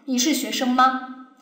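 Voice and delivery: “你是学生吗？” drawn out slowly and level, with no rise on 吗; flat, slow question. Shown as a demonstration. Teacher mocking an emotionless reading, flat and slow. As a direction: read “你是学生吗？” slowly and evenly, showing no feeling. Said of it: "一个肯定很平的".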